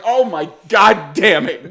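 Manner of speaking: slow, drawn-out groan of dismay; exasperated. Retold or imitated. Son hearing dad cursing below, exasperated. God damn it.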